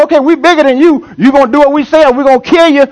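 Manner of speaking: a touch of a threatening bully; lightly voiced threat from the bigger group; bullying majority. Preacher voicing the persecutors to the congregation, mild menace. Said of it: "They say".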